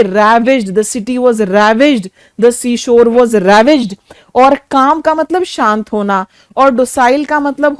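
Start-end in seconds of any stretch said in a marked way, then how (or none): 0.0-4.0 slow dictation. Shown as a demonstration. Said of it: "बहुत use होता है".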